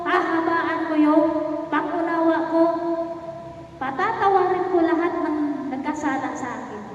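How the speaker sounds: a gentle spoken vow to the Lord; prayer. Acted. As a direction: pray it out, making a vow. Leading a prayer of commitment.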